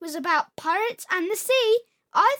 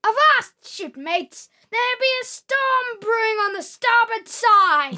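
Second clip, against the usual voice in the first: slow, loud pirate bellow; 3 semitones higher, 5 dB louder, slower than usual. Pretend. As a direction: hail the crew like a pirate captain. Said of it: "Go on then, give me an example".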